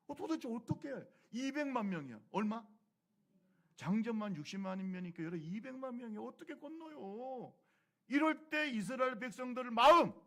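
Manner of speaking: loud, high, rising appeal; impassioned sermon outburst; fervent preaching. Real, not acted. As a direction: preach it out to the crowd with alarm. Preacher builds over Red Sea.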